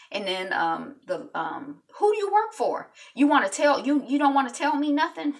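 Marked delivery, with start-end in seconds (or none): 2.0-5.3 menacing. Retold or imitated. Hero interrogating a dealer.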